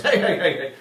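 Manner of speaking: calling out. Retold or imitated. Bouncer calling him back.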